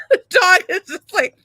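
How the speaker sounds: high, choked-up voice after a laugh; trying not to cry. Real, not acted. Storyteller describing the dropped dog, fighting not to cry. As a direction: struggle to hold it together, pitch climbing. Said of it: "I'm trying so hard not to cry".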